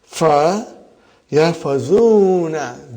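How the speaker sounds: Fa hit hard and loud, then yafazuna drawn out slowly and loud; stressed fa. Shown as a demonstration. Teacher to students, highlighting the fa in yafazuna, loud and slow. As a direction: punch the fa, then stretch yafazuna syllable by syllable. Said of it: "so highlight fa again".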